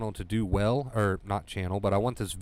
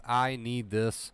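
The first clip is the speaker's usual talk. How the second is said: slow recap of the mantra; much slower than usual. Shown as a demonstration. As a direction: close on it calmly and slowly. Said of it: "Overcoming anxiety with these words".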